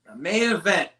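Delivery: slow, drawn-out fight announcer intro; ring announcer voice. Pretend. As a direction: announce it like a boxing MC. S0 mock-announces the main event.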